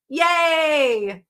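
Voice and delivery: solved it, cheering yay. Real, not acted. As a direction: celebrate the finish. Puzzle solved, confetti cheer.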